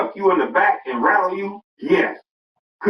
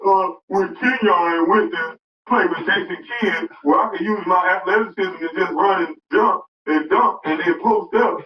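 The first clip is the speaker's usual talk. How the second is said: mocking Kwame Brown; 2 semitones higher than usual. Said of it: "now imagine Kwame Brown saying that".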